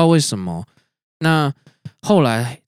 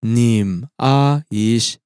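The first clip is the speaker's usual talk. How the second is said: reversed speech. Shown as a demonstration. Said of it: "比如说".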